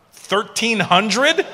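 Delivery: drawn-out incredulous question; stunned disbelief. Real, not acted. Comedian to the couple about their guest list, slow and stunned. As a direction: stretch it out in slow shock.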